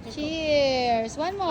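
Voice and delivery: loud, drawn-out cheer; calling a toast. Real, not acted. Vlogger toasting with the family, calling out loudly.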